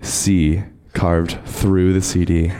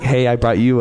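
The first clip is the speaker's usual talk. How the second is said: mild impression of a friend, a bit higher; imitating Shrew; 5 semitones higher, 3 dB louder than usual. Mimicking Shrew bringing her food, lightly higher. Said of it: "And then Shrew here is like".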